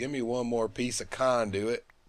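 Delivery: fake Southern American accent. Building something in a game, saying a word he keeps mispronouncing: put-on southern accent. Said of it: "say it like I'm from the South".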